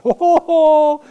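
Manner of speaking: put-on high childlike admiring voice; muddy little boy. Muddy boy admires the soldier on his horse, high childlike gushing. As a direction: gush up at the soldier like a small child. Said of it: "he looked up at me and he said".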